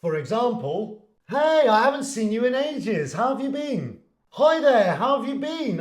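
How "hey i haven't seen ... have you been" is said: higher-pitched hello to a long-unseen friend; pleased catch-up greeting, lifted in pitch; friendly greeting. Acted. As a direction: greet them brightly, pitched up. Greeting someone unseen for ages.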